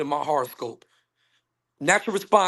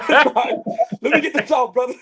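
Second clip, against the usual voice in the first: higher, laughing plea to be let finish; 4 semitones higher, 5 dB louder than usual. Real, not acted. Interrupted speaker asks co-hosts to let him finish, laughing. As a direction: talk through real laughter.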